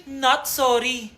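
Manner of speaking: very slow, laughing sneer; mocking non-apology. Mean girl mocking the new girl. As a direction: drag it out mockingly.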